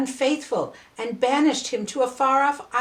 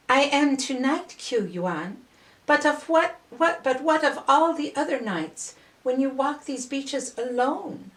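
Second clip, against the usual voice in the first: mermaid's voice; 5 semitones higher than usual. Acted. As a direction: press him gently but insistently, pitched up. Mermaid presses the poet.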